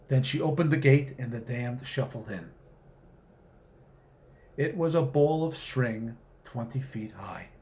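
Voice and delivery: measured storytelling read; unhurried fiction reading; story narration. A narrator's reading. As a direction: read it like a wry tale told aloud. Author reads his story aloud.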